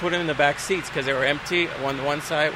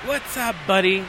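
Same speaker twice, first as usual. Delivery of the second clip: a hint of a tipsy passenger greeting; drunk guy voice; 3 semitones higher than usual. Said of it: "like this, like".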